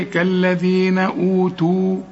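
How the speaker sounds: كالذين أوتوا slowly, stopping on أوتوا; slow recitation ending in a pause; pausal recitation. Shown as a demonstration. Teacher shows how to stop on the word. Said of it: "إذا وقفت تقول إيه؟".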